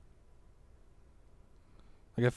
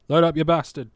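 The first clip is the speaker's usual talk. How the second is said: frustrated; 5 semitones higher, 9 dB louder, faster than usual. Real, not acted. Game loading too slowly.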